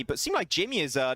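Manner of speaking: ordinary talk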